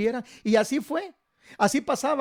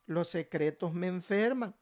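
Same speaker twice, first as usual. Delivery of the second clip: softer, slow echo of the phrase; quiet repetition; 2 semitones lower, 8 dB quieter than usual. Shown as a demonstration. Congregation repeating the pastor's phrase, soft and slow. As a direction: repeat it back gently and slowly.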